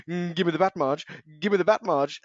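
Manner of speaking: a loose, gone-mad Homer Simpson; crazy Homer voice. Retold or imitated. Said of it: "like, proper crazy".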